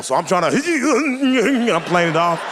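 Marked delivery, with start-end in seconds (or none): 0.6-1.7 high, wheezy stifled breathing; acted squeaky breath that passes for crying; strained fake sob. Man hiding his need to breathe, high mock-sob wheeze. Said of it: "She think I'm crying".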